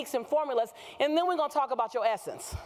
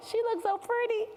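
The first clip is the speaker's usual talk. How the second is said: high, swooning quote of George; George's gushing voice; 9 semitones higher than usual. Retold or imitated. Husband gushing over his wife, high and swooning. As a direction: gush it like a smitten husband. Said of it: "He just like".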